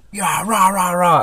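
high, hammed-up sales chant; mock cheer. Imitating the morning sales-team dance cheer, mock excited. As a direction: chant it like a forced pep rally. This stupid dance that everyone had to do.

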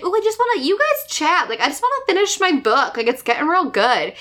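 high, sing-song mock mom. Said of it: "a great little mom thing where she's like".

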